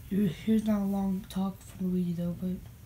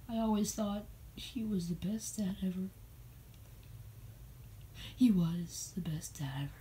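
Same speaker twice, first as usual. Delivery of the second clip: mock crying whisper; 5 dB quieter than usual. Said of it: "I'm sorry, I'm crying".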